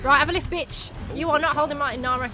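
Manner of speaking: loud gloating shout at the enemy; yelling taunt. Real, not acted. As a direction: bark it out, fast and cocky.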